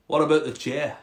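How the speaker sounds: put-on frog asking in a Scottish accent. Frog bargaining with the cat, Scottish accent. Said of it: "a Scottish frog".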